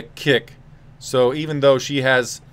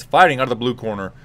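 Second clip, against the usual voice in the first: Bruce Buffer; 2 semitones lower, faster than usual. Retold or imitated. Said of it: "Bruce Buffer has the microphone, and he says".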